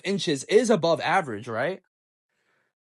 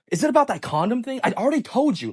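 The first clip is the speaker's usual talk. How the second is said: raised, mildly aggressive comeback; semi-aggressive; 7 semitones higher than usual. Retold or imitated. Girlfriend defends herself when asked for her phone, semi-aggressive. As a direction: imitate her higher, defensive retort. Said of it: "semi-aggressive voice".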